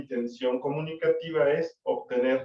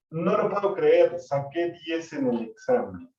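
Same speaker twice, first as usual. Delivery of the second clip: surprised exclamation; 3 semitones higher than usual. Shown as a demonstration. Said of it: "Un tema de sorpresa". (sorpresa exclamativa, más aguda y fuerte)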